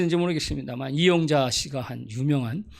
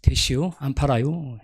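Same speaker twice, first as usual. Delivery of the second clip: curt Chungcheong refusal. Retold or imitated. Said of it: "직격탄이 나오죠".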